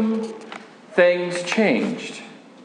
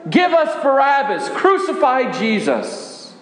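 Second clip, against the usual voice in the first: a touch higher, voicing the angry mob; mock crowd shout; 4 semitones higher than usual. Disciple retelling the crowd demanding Barabbas, mild mock shout. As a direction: echo the crowd's cry, not full volume. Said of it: "as the crowd shouted".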